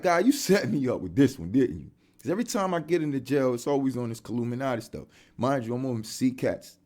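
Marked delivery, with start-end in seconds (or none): 0.0-1.9 exasperated prayer. Retold or imitated. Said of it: "It's like".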